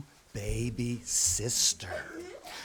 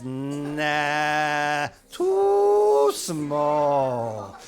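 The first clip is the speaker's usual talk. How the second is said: dismissive doctor; 4 dB louder, much slower than usual. Acted. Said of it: "He says".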